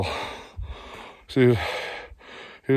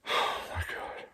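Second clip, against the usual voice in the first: hushed, scared whisper; fearful whisper; 13 dB quieter, slower than usual. Real, not acted. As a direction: whisper so the moose won't hear. Moose watching him nearby.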